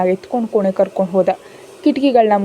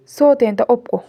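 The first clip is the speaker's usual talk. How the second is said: put-on higher, louder childish gloat; triumphant little girl; 4 semitones higher, 5 dB louder than usual. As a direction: crow it like a kid who won. Child demands mum admit defeat.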